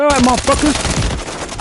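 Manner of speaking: high, slow gloating; slow smug taunt. Retold or imitated. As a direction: savor the comeback before flashing cash. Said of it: "I get mad".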